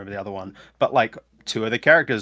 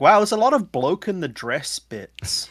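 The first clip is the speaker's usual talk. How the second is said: high, loud disbelief; wide-eyed shock at old comedy; incredulous; 9 semitones higher, 8 dB louder than usual. Retold or imitated. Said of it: "I'm like".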